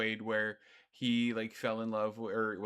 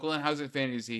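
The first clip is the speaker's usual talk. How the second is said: dumb bad voice; 4 semitones higher, 4 dB louder, faster than usual. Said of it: "doing the bad voice for him".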